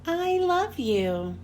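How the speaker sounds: tender. Acted. Soft slow closing whisper.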